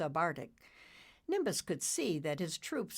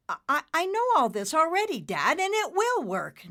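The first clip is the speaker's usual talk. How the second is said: much higher, fast irritated stammer; 12 semitones higher, 8 dB louder than usual. Acted. Nimbus insists to his father, fast and irritated. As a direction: snap back impatiently. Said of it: "Nimbus said with a little irritation".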